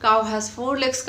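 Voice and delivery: slow, deliberate dictation of each sentence. Shown as a demonstration. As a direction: spell out each line slowly like a school essay. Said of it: "बार बार यही लिखते हैं". (धीमे-धीमे, बोल-बोलकर लिखवाते हुए)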